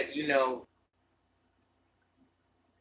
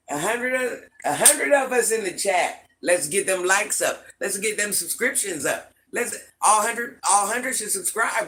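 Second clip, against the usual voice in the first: higher, louder hype to the chat; rally all hundred viewers, higher and louder; excited rally; 4 semitones higher, 4 dB louder than usual. Real, not acted. Granny rallying her live chat, higher and louder.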